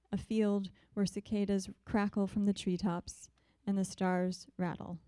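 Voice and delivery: measured, even poetry-reading voice; steady recital cadence with pauses between lines; poem reading. Acted. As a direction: let each image land, unhurried. Reads her poem aloud.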